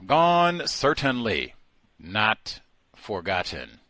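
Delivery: ordinary talk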